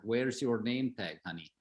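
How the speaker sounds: a fond Lebanese uncle scolding, "your" stressed; Lebanese accent. Retold or imitated. Uncle with a Lebanese accent chiding his nephew for no name tag. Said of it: "So they had, like, this accent".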